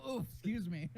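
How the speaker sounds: put-on a light posh British accent. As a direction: play a flustered posh Brit. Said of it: "speak a little British".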